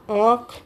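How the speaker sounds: आँख with the long vowel through nose and mouth; nasalised vowel. Shown as a demonstration. Teacher giving examples of nasal sounds, nasalised आँख. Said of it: "वही अनुनासिक ध्वनियाँ कहलाती हैं".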